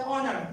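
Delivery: "honor" starting on the vowel; "honor" said as "onner"; silent H. Shown as a demonstration. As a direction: drop the H in HONOR. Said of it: "So H is silent".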